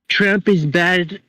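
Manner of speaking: slow, drawn-out sarcastic quote; mock whine. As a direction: drag it out to mock the complaint. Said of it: "this fucking bullshit".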